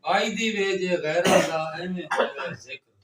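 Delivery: verse lines launched strongly, then easing off; poetry recitation. Acted. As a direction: declaim each couplet for an appreciative audience. Recites verse between audience refrains.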